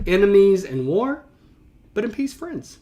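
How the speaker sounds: a hammed-up proper gentleman's polite threat; mock proper. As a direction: ham up the stiff formal farewell, pitched high. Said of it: "oh, that's so proper".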